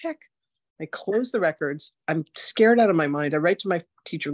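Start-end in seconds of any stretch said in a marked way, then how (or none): 0.0-0.3 slow, much higher disbelieving cry; freaked-out. Retold or imitated. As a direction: sound stunned and spooked. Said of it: "And I'm freaking out".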